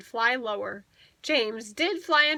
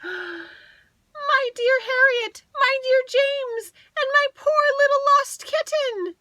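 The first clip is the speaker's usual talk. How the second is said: much higher, louder, slow and crying; mother reunited with her children, crying with joy; tearful joy; 13 semitones higher, 6 dB louder than usual. Acted. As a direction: weep for joy over the lost children. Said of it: "her purr was rather shaky".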